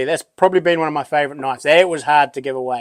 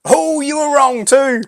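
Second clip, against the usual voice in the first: laughing and teasing, much higher; 11 semitones higher, 4 dB louder than usual. Real, not acted. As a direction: chuckle through the words. Teasing viewers about wrong guess.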